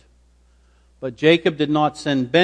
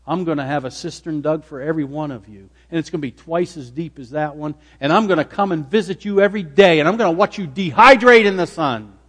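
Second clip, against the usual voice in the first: building threat; 2 semitones higher, 3 dB louder than usual. Acted. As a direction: build the vengeful promise to a forceful finish. Imagined revenge threat builds in force.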